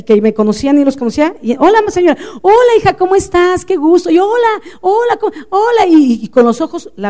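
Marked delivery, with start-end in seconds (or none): 1.6-4.1 saludo agudo y exageradamente cordial; saludo efusivo. Retold or imitated. Saludo efusivo actuado a otros. 4.2-5.9 holas agudos y exageradamente alegres; saludos efusivos. Retold or imitated. Saludos efusivos ignorando a la niña.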